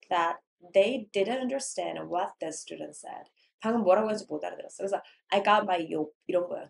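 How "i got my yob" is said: "job" said with a y sound, like "yob"; mispronounced job. Shown as a demonstration. Student mispronouncing to teacher, "job" turned into "yob". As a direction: soften the j of "job" into a y. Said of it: "job이라고 해야 돼".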